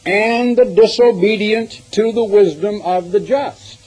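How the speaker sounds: slow, high-pitched, deliberate declamation; emphatic scripture reading. Real, not acted. Preacher reading prophecy about John to congregation, emphatic and measured.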